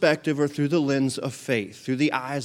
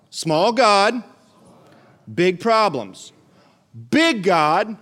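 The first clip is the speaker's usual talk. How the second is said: call and repeat; 4 semitones higher, 5 dB louder, much slower than usual. Shown as a demonstration. Leading congregation in call and repeat.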